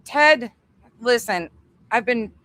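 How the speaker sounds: loud, high pleading call; begging plea. Pretend. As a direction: plead with him, half joking. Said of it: "I'm begging Ted".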